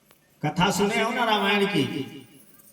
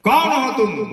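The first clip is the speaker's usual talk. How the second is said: louder, fear-changed voice; frightened shout; 3 semitones higher, 6 dB louder than usual. Acted. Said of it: "आवाज उसका अलग बदल जाता है". (डरी हुई बदली आवाज़ में चीख)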